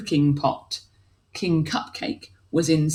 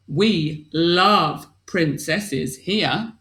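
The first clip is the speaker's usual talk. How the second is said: slow alien; much slower than usual. Acted. Alien voiced in story.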